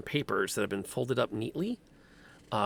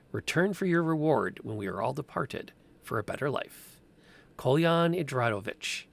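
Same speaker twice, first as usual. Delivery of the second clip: put-on grave, measured old-world proclamation; formal letter reading. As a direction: read it like a solemn decree. DM reads burgomaster's letter.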